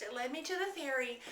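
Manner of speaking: quick, hurried delivery; brisk, slightly rushed pace; said fast. Real, not acted. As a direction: rush through it to save time. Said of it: "try to say this really fast".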